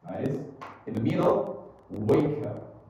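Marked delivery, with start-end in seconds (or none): 1.9-2.8 "wake up" joined as "way-kup"; linked K. Shown as a demonstration. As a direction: link the K of "wake" into "up". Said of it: "Jadi disambung ya".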